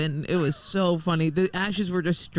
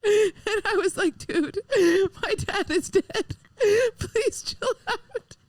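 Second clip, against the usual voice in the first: laughing. Real, not acted. Teller laughing through story.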